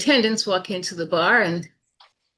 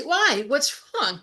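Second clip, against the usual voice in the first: puzzled protest; 6 semitones higher, slower than usual. Acted. Matadors protest being refused service.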